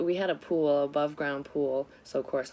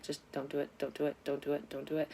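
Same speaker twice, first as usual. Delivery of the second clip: pleading self-talk; 6 dB quieter, faster than usual. Retold or imitated. Woman silently begging herself not to cry before her boss, quiet pleading self-talk. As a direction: urge yourself under your breath to hold it together. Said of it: "I would try so fucking hard not to cry".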